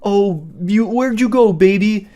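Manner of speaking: high sweet cooing; mock lovey-dovey. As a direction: coo it like a lovesick boyfriend. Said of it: "in love kind of thing".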